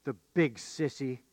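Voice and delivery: put-on a small, shaky child's mutter; a hint of a scared little boy. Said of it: "a shaky voice".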